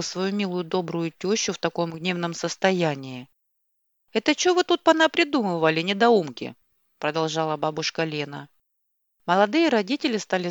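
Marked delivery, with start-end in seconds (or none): 4.1-6.5 angry scolding. Acted. Furious grandmother scolding.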